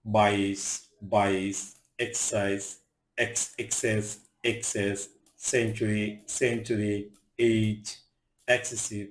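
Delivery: সেঞ্চুরি, সিলিং with C said as a hissed "s". Shown as a demonstration. Teacher reading C words to learners, "s" in সিলিং. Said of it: "সি এর উচ্চারণ দন্ত স মতো হয়".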